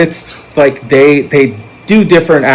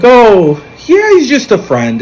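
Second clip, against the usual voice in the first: nervous cover-up; 10 semitones higher, slower than usual. Retold or imitated.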